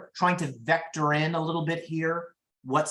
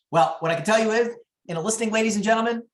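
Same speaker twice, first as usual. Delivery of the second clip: louder, higher, faster showman call; announcer flourish; 5 semitones higher, 4 dB louder, faster than usual. Real, not acted. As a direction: address the room like a ringmaster. Presenter raising voice to audience.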